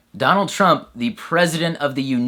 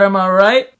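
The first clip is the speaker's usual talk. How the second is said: cocky bro; 6 semitones higher, 7 dB louder than usual. Acted. Bro seeking approval.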